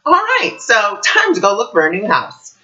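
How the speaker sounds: high-pitched "all right", then settling; acted-out resigned readiness; making the best. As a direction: re-enact taking news in stride. Retells reaction to sudden eviction notice.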